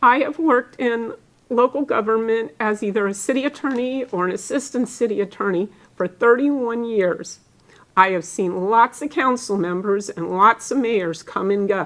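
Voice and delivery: voice catching, choked up, close to tears. Praising colleagues and Mayor Ross, about to cry. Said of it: "I'm gonna cry now".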